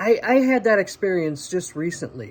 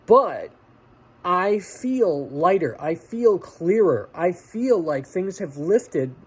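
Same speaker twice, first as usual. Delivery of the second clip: relieved; slower than usual. Real, not acted. Relief after the dreaded phone call.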